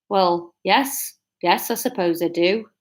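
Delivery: understated northern reply; broad northern. Acted. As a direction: concede it in a northern accent. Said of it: "we're going broad strokes northern".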